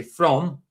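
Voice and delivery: "from" in full, with final m; English "from". Shown as a demonstration. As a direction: stress the English word "from". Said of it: "An English person would say".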